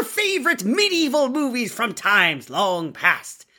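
high, slow, hammed-up pirate accent; over-the-top pirate captain welcoming listeners aboard. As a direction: ham up a swashbuckling pirate captain, drawn out. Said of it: "doing the most with the pirate accent".

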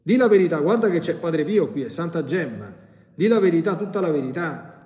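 forceful high commanding voice; exorcist's command. Retold or imitated. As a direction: order the spirit to speak. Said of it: "Allora io ho detto". (comando deciso dell'esorcista)

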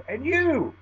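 high, loud jeering; mock bully taunt; tough guy taunt. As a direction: sneer it down at the little guy. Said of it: "the guy says".

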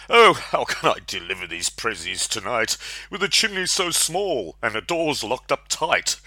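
lightly voiced weary Santa; a hint of grumbling old Santa. Santa complains in poem.

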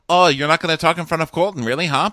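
mocking Nicole taunting her rival; snarky mock taunt. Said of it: "And Nicole's like".

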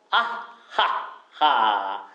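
slow detached "あっはっは"; teacher leads the class in a staccato laugh. Shown as a demonstration. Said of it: "スタッカート気味で".

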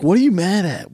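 retelling his clueless question to his wife; baffled. Retold or imitated. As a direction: ask it honestly puzzled. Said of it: "I'm like".

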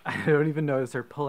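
laughing through I don't even notice. Real, not acted. Laughs through the repeated phrase.

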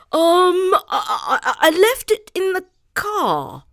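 high nervous stammer; flustered stammering. Acted. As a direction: fumble the excuse in panic. Jonathan flustered excuse.

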